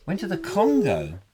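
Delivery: playfully baffled echo, pitch swooping on Congo; mock-incredulous echo. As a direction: repeat it as a puzzled question. Echoes own statement as incredulous question.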